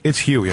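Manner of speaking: "Huey" said as HYOO-ee; correcting pronunciation. Acted. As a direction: put the y glide into "Huey". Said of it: "if I ever get corrected".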